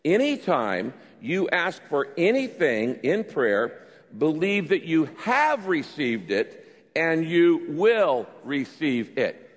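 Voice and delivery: slow read-aloud, hitting "have"; deliberate, measured verse with "have" emphasized; stress on have. Shown as a demonstration. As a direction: lead a group reading, leaning hard on "have". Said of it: "emphasize the word have".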